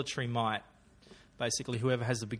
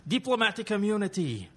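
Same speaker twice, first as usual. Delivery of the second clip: higher put-on movie villain voice; defiant film villain; 8 semitones higher than usual. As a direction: replay the villain's claim as a cue. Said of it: "I'll read you in".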